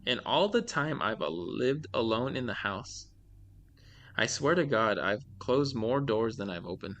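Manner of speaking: measured read-aloud of a creepy tale; storyteller's deliberate delivery; scary story narration. A narrator's reading. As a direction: read it out like a short horror story. Reads scary stories aloud.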